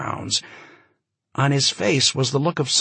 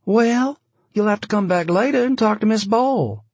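higher, curt brush-off; dismissive woman; 11 semitones higher, 3 dB louder than usual. A narrator's reading. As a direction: send him away curtly. Maria dismisses the giant.

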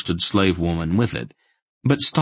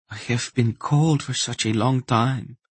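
higher voice, sighing contentment; weary contentment; 6 semitones higher than usual. A narrator's reading. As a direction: sigh it out, tired but content. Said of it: "she sighed with a sort of weary contentment".

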